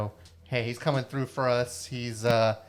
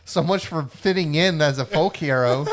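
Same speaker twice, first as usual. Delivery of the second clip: loud laugh through the words; 5 semitones higher, 8 dB louder than usual. Real, not acted. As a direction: giggle out the line. Laughing after failure.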